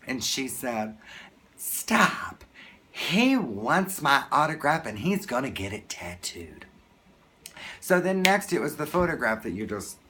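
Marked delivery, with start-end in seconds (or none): 1.6-6.7 mimicked celebrity coming to a fan's defence; a singer. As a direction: halt them, then explain in an imitated star's voice. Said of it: "as Dolly Parton would, and she said".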